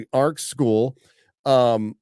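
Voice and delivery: usual speaking voice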